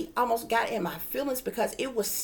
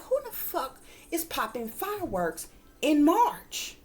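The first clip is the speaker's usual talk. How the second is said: annoyed; 5 semitones higher than usual. Retold or imitated. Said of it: "It pissed me".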